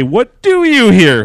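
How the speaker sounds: high, loud, slow, "do" punched; drawn-out "do" in a mocking quote; mock-stilted line reading. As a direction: deliver it absurdly theatrically, leaning on "do". Mocks voice actress's stilted line.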